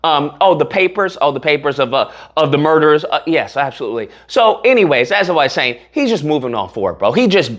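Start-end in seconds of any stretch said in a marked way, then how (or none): 0.0-4.1 lightly mocking, calm and unbothered. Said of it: "It's like".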